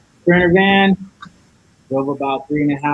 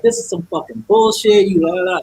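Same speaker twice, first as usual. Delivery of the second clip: higher-pitched indignant rant; mock tirade, pitched up; retold cussing out; 4 semitones higher than usual. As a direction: replay your own cussing fit, tailing into la-la-la. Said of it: "So I started cussing".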